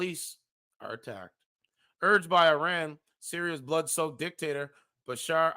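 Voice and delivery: measured news-style reading of an article; formal reading of a grim forecast; article read aloud. Acted. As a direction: read it like a serious report.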